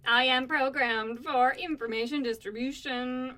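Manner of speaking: slow, measured robot speech. Acted. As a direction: read it out like a computer. Answers in robot role.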